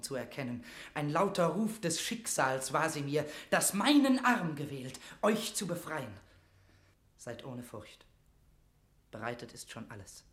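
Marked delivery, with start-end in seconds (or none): 0.9-6.1 rousing resolve. Acted. Mortimer's sense of mission. 7.2-10.2 much softer, calming; quiet, conspiratorial comfort; hushed reassurance. Acted. Mortimer calms the queen.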